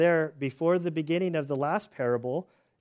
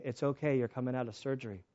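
soft nurse voice; 4 semitones lower, 9 dB quieter than usual. Retold or imitated.

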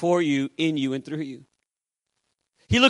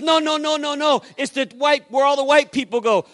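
high-pitched retold protest; emphatic, high, repeated refusal; insistent objection; 6 semitones higher than usual. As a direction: imitate a man arguing back in alarm. Retold excited argument about a church.

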